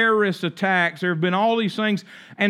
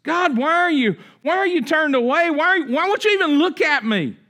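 higher, pleading voice, why are you pushed hard; desperate cry to God; 9 semitones higher, 3 dB louder than usual. Acted. Preacher voicing a believer who feels forsaken, crying out higher. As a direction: plead with God like someone abandoned.

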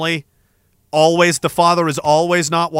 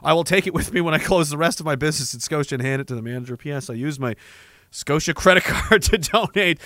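fake Japanese accent; 4 semitones lower, 5 dB quieter than usual. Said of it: "in a racist Japanese accent".

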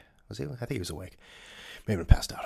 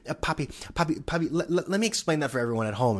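mocking A-Rod; 7 semitones higher, faster than usual. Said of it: "A-Rod will jump in and be like".

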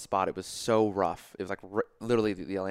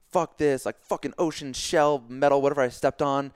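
a touch of griping, higher and louder; mock angry rant; 5 semitones higher, 4 dB louder than usual. Injured athlete showing the reaction he avoided, mock frustration. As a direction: imitate a self-pitying complaint. Acts out reaction he didn't have.

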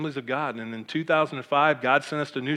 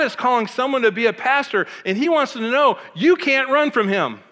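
raised, ringing preacher voice; missionary preaching; 8 semitones higher, 4 dB louder than usual. Retold or imitated. Missionary calling the congregation from the pulpit, raised preacher voice. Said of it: "He goes".

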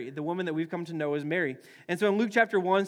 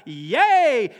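loud higher cheer; mock cheer; 4 semitones higher, 9 dB louder than usual. Angel telling Keith he found favor, loud mock cheer. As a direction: celebrate the good news. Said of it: "If Keith was like".

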